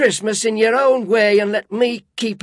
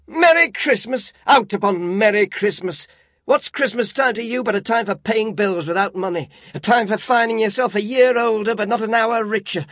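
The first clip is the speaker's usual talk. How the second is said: loud, high furious tirade; indignant rant; 8 semitones higher, 5 dB louder than usual. A narrator's reading. Scrooge railing at his nephew about Christmas, indignant. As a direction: rage against the fools. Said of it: "said Scrooge indignantly".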